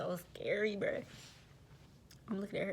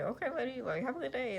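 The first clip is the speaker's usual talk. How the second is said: mock brush-off; 8 semitones higher, 6 dB louder than usual. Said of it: "And I'm like".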